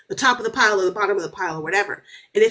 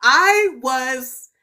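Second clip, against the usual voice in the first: worked-up retelling; 6 semitones higher than usual. Real, not acted. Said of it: "I was crying so fucking hard".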